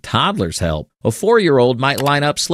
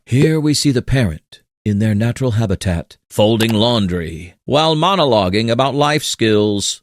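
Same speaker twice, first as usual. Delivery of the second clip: hushed wildlife documentary narrator; lightly voiced nature documentary narration. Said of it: "like we're narrating a nature documentary".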